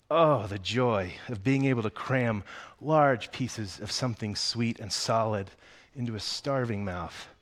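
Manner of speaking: put-on reading a children's book aloud to the congregation; story reading. A narrator's reading. Pastor reads Willy Wonka to the church, storytelling voice. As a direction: tell it like a bedtime chapter.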